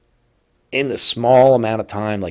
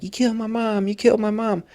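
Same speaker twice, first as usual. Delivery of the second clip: first accusation; 13 semitones higher, faster than usual. Retold or imitated. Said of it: "at first, he was just like".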